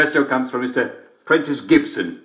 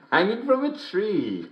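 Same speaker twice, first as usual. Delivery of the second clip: higher, slower, chuckling through the words; laughing; 9 semitones higher than usual. Real, not acted. Host repeating the punchline he finally got, laughing through it. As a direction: savour the line while giggling.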